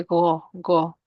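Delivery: go, go from the back of the throat like gargling; gargled go, go; while gargling. Shown as a demonstration. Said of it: "and then you say".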